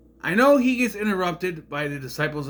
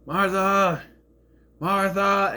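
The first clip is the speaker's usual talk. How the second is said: mock yell; 5 semitones higher, 3 dB louder, much slower than usual. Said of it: "Clark going".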